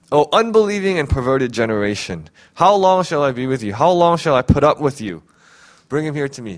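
harsh rebuke. Acted. Jesus rebuking his disciples, mildly harsh. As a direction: read it as a sharp scolding. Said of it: "Doesn't Jesus sound a little bit harsh".

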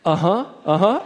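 imitated uncertain uh-huh, rising each time; bewildered acknowledgement. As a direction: mimic someone baffled but nodding along. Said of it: "with this kind of bewilderment".

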